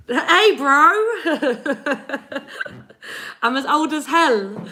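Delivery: playful put-on bro voice; mock dude voice. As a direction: lightly put on a jokey bro voice. Mock voice reading the comment.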